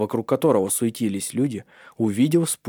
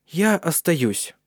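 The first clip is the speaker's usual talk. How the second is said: slow, higher, proudly drawn-out; proud answer; 7 semitones higher, much slower than usual. A narrator's reading. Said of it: "гордо ответила Джессика".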